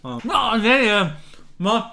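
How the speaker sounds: swallowing between words; chewing while talking. Real, not acted. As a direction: mouth full, stumbling over words. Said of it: "Sorry, man isst nicht mit vollem Mund".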